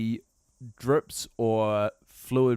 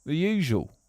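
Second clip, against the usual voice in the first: put-on English accent. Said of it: "talking like this".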